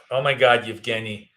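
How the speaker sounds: normal talking voice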